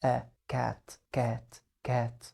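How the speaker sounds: "كات" said with a short, snapped a; short a in cat. Shown as a demonstration. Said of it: "قلنا أ".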